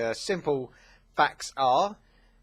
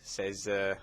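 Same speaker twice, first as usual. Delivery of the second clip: ordinary delivery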